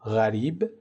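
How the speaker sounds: «غریب» with an Arabic ghayn, distinct from qaf. Shown as a demonstration. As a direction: say «غریب» the Arabic way, starting on a voiced fricative gh. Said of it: "در عربی اولی به صورت". («غریب» با تلفظ عربیِ حرف غین)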